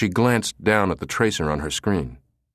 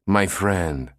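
gushing. Acted. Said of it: "Roldan gushed into the phone".

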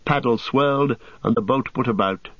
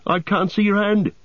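high, frightened drowning voice; panicked gasping; 10 semitones higher than usual. A narrator's reading. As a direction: wail it as if going under. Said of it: "gasped Sam".

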